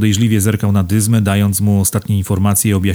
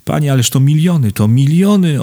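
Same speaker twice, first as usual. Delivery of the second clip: high-pitched indignant protest; flustered indignation, high all through; 6 semitones higher than usual. A narrator's reading. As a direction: object as if scandalised, voice lifted. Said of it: "oburzył się Kunicki".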